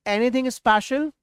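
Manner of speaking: drawn-out slow asking tune; slow model phrase. Shown as a demonstration. Teacher slowly models the question for students to repeat. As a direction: stretch each word so students can copy. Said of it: "तो कुछ खास को बोलेंगे".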